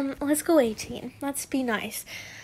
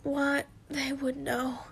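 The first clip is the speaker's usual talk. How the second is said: breathless whisper of a dying man; weak dying whisper; 6 dB quieter, slower than usual. Acted. Dying husband whispering farewell to Harry, faint whisper. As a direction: fade out in a frail whisper. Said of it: "he said weakly".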